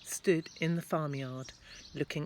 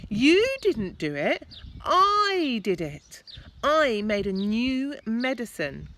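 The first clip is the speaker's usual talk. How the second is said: put-on insistent boy; 8 semitones higher, 8 dB louder than usual. George calling up to grandma.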